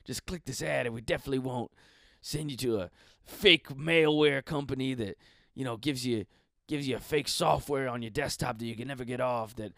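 mock sales announcer, punching the selling words; lightly hammed-up commercial parody; ad pitch. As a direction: hawk it like a cheesy online ad. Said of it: "that's what the ads will say".

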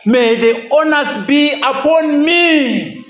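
tender vow. Retold or imitated. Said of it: "he is saying to them".

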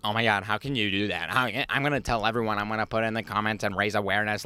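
mock outrage. Mocking outraged commenters.

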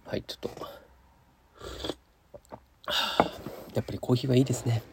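between sips of coffee; while sipping a drink. Real, not acted. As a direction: murmur around a sip of coffee. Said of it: "コーヒーを飲みながら収録しております".

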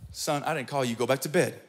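low, soft, unbothered reply; low dismissal. Retold or imitated. Eli sending the boy back to bed, quietly dismissive.

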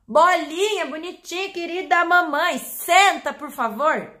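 high, loud doting pet-owner voice; mock owner sweet-talking her pet; sweet baby talk to a dog. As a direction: coo over the dog, then plead senta. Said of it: "se eu falar".

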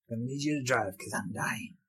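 soft, weak imitation of a dying woman; dying Furiosa. Fan quoting dying Furiosa to the screen, soft and faint. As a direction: lightly voice the fading heroine.

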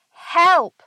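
high, loud mock scream for help; cartoonish yelp of alarm, not full-out; retold scream. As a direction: imitate a panicked cry with a falling swoop. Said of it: "jumps up on a chair and screams".

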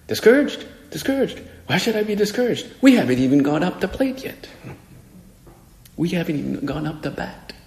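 high-pitched imitation of an eager young ballplayer; enthusiastic little kid. Little third baseman answering the lady who asked the score, enthusiastic high voice. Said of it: "but he's enthusiastic".

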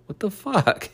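squeaky high disbelief; high-pitched "what the fuck"; incredulous outburst. Real, not acted. Vlogger reacting to an argument in high disbelief.

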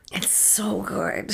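slow breathy whisper of pleasure. Real, not acted. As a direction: whisper it, savoring. Savoring the drink.

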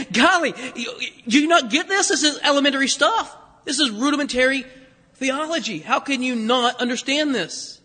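lightly acted incredulous rebuke; mock exasperation. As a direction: chide in playful disbelief, pitched slightly up. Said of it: "Jesus' reply was something like".

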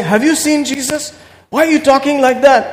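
a hint of a puzzled doubter; doubting listener. Voices doubting listeners' questions.

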